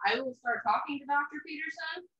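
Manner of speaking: tinny voice like through a tin can; thin, boxed-in speaker sound. Real, not acted. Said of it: "you sound like you're in a tin can".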